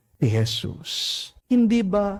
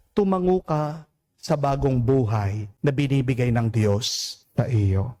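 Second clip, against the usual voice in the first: usual speaking voice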